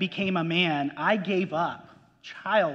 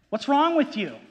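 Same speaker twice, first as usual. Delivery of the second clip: higher, louder scolding parent; a parent baffled by a grown child's gibberish; exasperated parent; 7 semitones higher, 4 dB louder than usual. Retold or imitated. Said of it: "what are you gonna say?".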